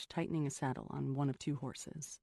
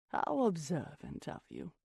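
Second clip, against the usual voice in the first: mock coo. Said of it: "Missus Sinclair cooed".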